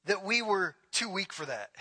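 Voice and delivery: mock confession with a pause midway; sarcastic. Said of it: "He's being sarcastic".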